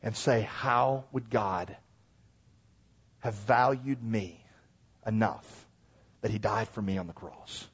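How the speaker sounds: slow, low wondering delivery; reflective preaching. Acted. Preacher marvels that God valued him, reflective preaching. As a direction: let each phrase land softly, with long pauses.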